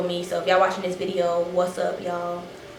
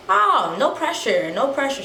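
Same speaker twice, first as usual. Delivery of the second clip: sarcastic; 5 semitones higher, slower than usual. Retold or imitated. Sarcastic reply to pressure.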